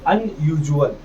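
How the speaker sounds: "अनयूजुअल" read slowly as un-yu-zhu-al, s sounding like zh; teacher sounds out "अनयूजुअल" for the class; spelled out reading. Shown as a demonstration. Teacher models "अनयूजुअल" for students, zh sound clear. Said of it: "समझो इसे कैसे पढ़ा?".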